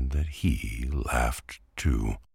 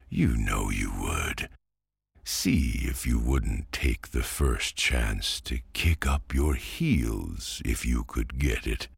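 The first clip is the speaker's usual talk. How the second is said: winning voice. Acted. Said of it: "in a most winning voice".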